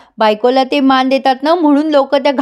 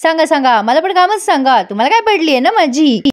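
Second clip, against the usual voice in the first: mildly hammed-up nagging, pitched higher; quarrelsome wife; 4 semitones higher than usual. Wife sarcastically complains to her husband about chores, acted quarrelling. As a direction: pick a mock fight in a higher voice. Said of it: "मोठ्या मोठ्याने त्या नवऱ्याशी भांडायला लागते".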